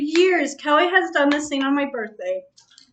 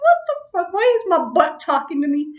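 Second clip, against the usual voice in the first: jumps higher on the first words, then settles; a mock shocked what-the; startled outburst; 4 semitones higher than usual. Retelling her butt-dial to a friend, shocked. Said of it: "And I'm like".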